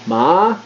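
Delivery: ma dropping sharply from high; sharp falling fourth tone. Shown as a demonstration. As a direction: spike ma down from the top. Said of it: "sharp downward spike".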